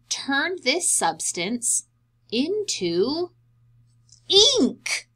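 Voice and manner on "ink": excited reveal. Acted. Big reveal of surprising substance.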